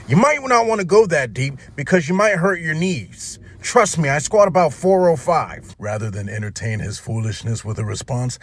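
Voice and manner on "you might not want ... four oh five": high, loud mock gym-bro voice; a mock know-it-all gym rat. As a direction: ham up the know-it-all lifter. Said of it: "Creature looks at me and says".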